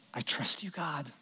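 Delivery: very soft, low prayer of trust; hushed trust. Acted. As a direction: drop to a near-whisper, as if praying privately. Voicing Mary's trusting prayer.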